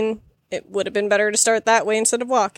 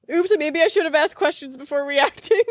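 sheepish; 2 semitones higher than usual. Retold or imitated. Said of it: "I'm like".

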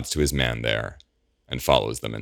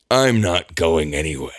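whispered; 3 semitones higher, 4 dB louder than usual. A narrator's reading. Eamon refusing to leave.

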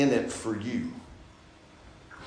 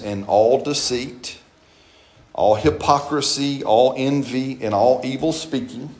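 scripture reading; slower than usual. Acted. Reads scripture slowly, solemnly.

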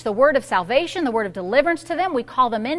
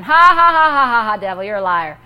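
laughing at the devil; 4 semitones lower, 5 dB louder than usual. Retold or imitated. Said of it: "I was laughing".

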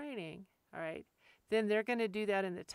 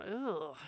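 reluctant groan; 2 semitones lower, 6 dB quieter than usual. Retold or imitated. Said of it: "and I'm going".

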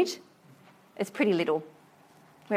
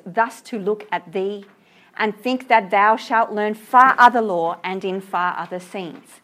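poem reading. Acted. Teacher reading the tender stanza aloud, slow gentle recital. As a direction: read it like a lullaby to a sleeping child.

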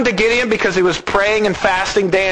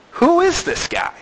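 excited; 12 semitones higher than usual. Acted. Same question, exclaimed high.

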